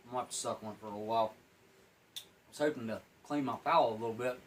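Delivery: chewing gum while talking; mouth full. Real, not acted. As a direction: talk around a hard piece of gum. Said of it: "Talking with my mouth full".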